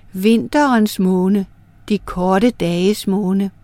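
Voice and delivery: slow, measured listing of moons; solemn recitation. Acted. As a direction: chant each moon name slowly like a litany. Moon recites the months.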